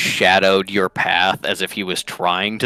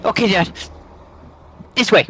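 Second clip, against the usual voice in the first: Kekano; 13 semitones higher, faster than usual. Acted. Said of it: "And goes".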